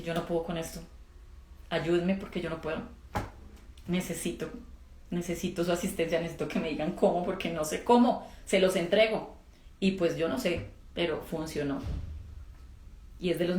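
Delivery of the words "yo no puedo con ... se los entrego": earnest plea. Retold or imitated. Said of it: "yo les dije".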